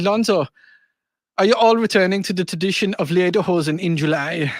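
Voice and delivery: light mock German accent on a listener text; hint of a German accent, reading aloud. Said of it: "I need to read this in a German accent".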